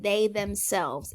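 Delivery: THEY THEMSELVES said slowly and deliberately; stress on THEMSELVES. Shown as a demonstration. Teacher answering who bought it, stress on "they themselves". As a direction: spell out "they themselves" with slow weight. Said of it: "It's emphasizing that they are the ones".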